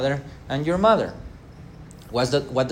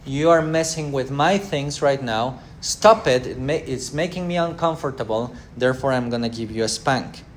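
mock annoyed scolding, louder on stop it; irritated parent; 3 dB louder than usual. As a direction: snap at the child who bothers you. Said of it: "correction equals".

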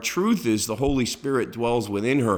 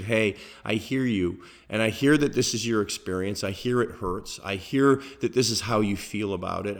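gentle. Retold or imitated. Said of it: "so I very gently said".

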